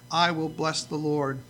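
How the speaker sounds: slow, soft vow; quiet resolve. Acted. David quietly vowing to bless the Lord. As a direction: say it slowly as a quiet promise. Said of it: "When I'm at the worst place".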